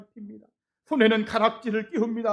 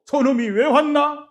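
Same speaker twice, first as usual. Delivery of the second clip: resentful elder brother; 6 semitones higher, 9 dB louder than usual. Retold or imitated. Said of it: "저런 몰골로".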